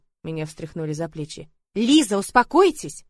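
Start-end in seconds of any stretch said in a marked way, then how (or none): 1.7-3.0 1 urgent plea. A narrator's reading. Встряхивает героиню за плечи.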